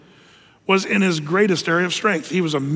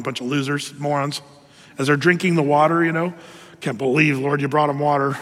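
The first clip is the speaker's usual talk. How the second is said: muttered grumbling; 5 semitones lower than usual. Retold or imitated. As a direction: grumble scornfully while arms are crossed. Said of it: "Moses is probably back leaning on a rock going".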